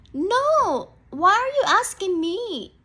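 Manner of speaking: high, loud nervous rabbit snapping back; defensive rabbit. Acted. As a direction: push him off loudly, guilty and jumpy. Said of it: "The rabbit sounds very defensive".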